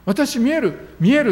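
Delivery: high, loud cry of sudden sight; retold excited shout. 盲目の少女が興奮して叫ぶ. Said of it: "とかって叫び始めるんです".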